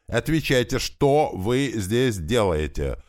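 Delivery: slow menacing demand, words split apart; separating the words. A narrator's reading. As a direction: spell out each word as a threat. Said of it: "разделяя слова".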